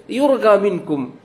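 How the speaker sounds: ইউরগা said with a hard g; Egyptian Arabic accent. Retold or imitated. A preacher imitating an Egyptian airline announcement in Egyptian Arabic. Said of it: "বলতেছে".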